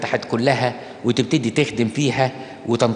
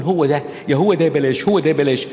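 a hint of a dithering lovesick girl; lightly voiced girl torn between yes and no; mock lovesick dithering. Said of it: "وبقول".

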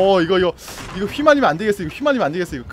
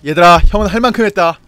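resigned call out; 3 semitones lower, 9 dB louder than usual. Real, not acted. Calling teammates, giving up.

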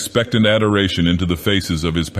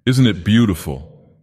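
trembling. Acted. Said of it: "His voice trembled a little".

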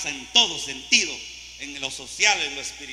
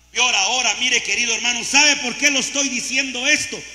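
louder preaching call; preaching build; 5 semitones higher, 8 dB louder than usual. Real, not acted. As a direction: press the point home. Preacher raises to the congregation.

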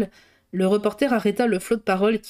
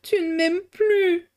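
panting; 10 semitones higher, slower than usual. A narrator's reading. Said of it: "haletait la jeune femme".

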